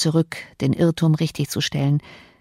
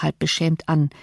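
ordinary delivery

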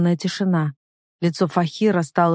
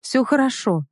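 exhaled words; 5 semitones higher than usual. A narrator's reading. Heroine to her rescuer, relieved exhale. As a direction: breathe it out with relief, slowly. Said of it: "выдохнула я".

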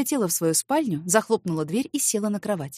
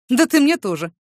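loud snappy comeback; retort; 4 semitones higher, 7 dB louder than usual. Acted. Man snapping back at the neighbour, loud. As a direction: throw it right back. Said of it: "Не остался в долгу".

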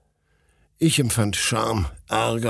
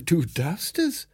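laughing; 10 semitones higher, slower than usual. A narrator's reading. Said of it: "antwortete Sinotschka lachend".

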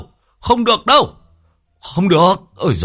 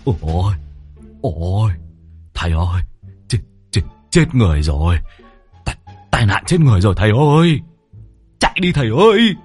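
hốt hoảng, nói nhanh dần; cuống cuồng giục chạy; faster than usual. Acted. Hoảng sợ tưởng chết người. (Lâm Sẹo hoảng sợ giục thầy chạy)

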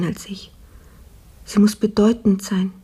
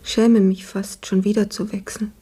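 weak sick whisper. Acted. Sick maid, weak in bed.

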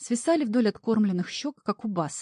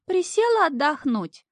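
coy maiden; 12 semitones higher, 4 dB louder than usual. Acted. Imp plays lost girl.

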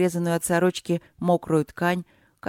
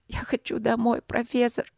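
higher, small pleading voice; pleading girl; 6 semitones higher than usual. Acted. Frightened princess pleads.

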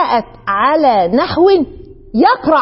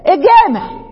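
attention call; 5 semitones higher, slower than usual. Shown as a demonstration. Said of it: "زي ما أنا قلتها في المثال".

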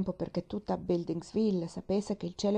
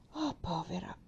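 sighing. A narrator's reading. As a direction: sigh the pity out, then let it swell. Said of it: "sospirò ancora Pendleton".

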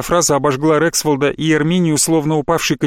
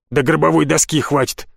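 ordinary delivery

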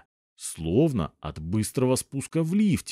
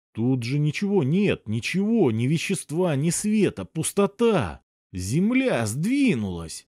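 frantic shouting hostage taker; 5 semitones higher than usual. Acted. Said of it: "истерично закричал Пойндекстер".

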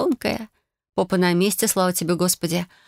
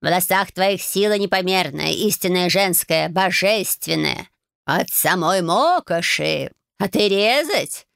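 slow, weighty cat lecture; a cat rebuking her gravely; solemn cat; slower than usual. Acted. Cat Bayun scolds Marya for wanting to cut her hair, slow and grave.

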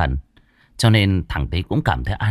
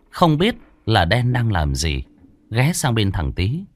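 usual speaking voice

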